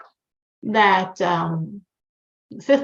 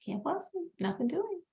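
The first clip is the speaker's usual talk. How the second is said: very soft, higher-pitched brush-off; quiet refusal; 5 semitones higher, 12 dB quieter than usual. Retold or imitated. Rebbe just sits there as the man cries, refusing quietly. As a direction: turn him down softly, barely voicing it.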